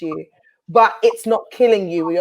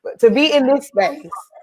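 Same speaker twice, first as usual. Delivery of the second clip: holding back tears; 4 semitones higher than usual. Real, not acted. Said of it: "I'm trying not to cry".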